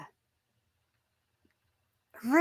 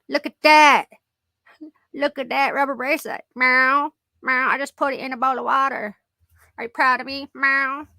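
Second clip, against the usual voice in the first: lightly voiced cat, a touch higher and meowing; 4 semitones higher, 5 dB louder than usual. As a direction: play the cat bragging about its rubber bracelet. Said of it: "He says".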